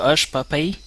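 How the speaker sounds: lightly put-on Québécois, teasing; mock Québécois Snake brushing off the old man; a hint of Québécois accent. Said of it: "Snake québécois".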